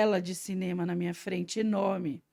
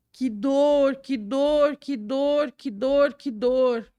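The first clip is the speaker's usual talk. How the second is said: crying out; 5 semitones higher, 4 dB louder, much slower than usual. Retold or imitated. Reliving the pain, crying out.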